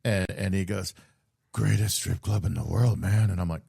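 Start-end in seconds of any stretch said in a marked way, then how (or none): 1.5-3.3 put-on French accent. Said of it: "in a very thick, uh, French accent".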